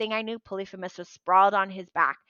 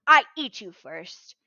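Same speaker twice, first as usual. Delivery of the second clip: roaring giant taunt; 6 semitones higher, 11 dB louder, slower than usual. Acted. Cyclops mocking Percy.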